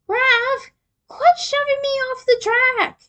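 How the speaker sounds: hammed-up complaint mid-race; mock shout. A narrator's reading. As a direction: reader yelling at Raph over a racing game. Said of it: "you shouted".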